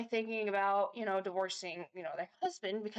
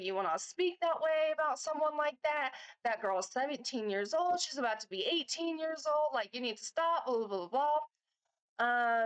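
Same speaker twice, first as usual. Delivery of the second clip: mildly raised, retelling a blow-up; retold angry outburst; 5 semitones higher than usual. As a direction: replay the scolding with a bit of heat. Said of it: "I was real mad".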